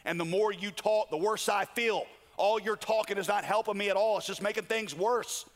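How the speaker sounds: mildly fed-up pushback; exasperated protest, pitch climbing as it goes. Acted. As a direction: act out a worn-down man losing patience with his friends. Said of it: "Job, exasperated, says".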